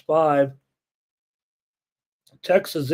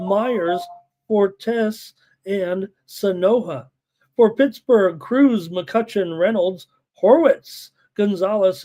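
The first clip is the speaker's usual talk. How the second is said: higher-pitched roll call of names; lineup announcement; 3 semitones higher than usual. Real, not acted. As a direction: read out the lineup name by name, winding down slowly on the last. Reads out team lineups.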